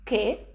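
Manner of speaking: Che as "keh" with rising pitch; upward question intonation. Shown as a demonstration. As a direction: ask Che as a one-word Italian question. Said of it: "with a slightly upward intonation".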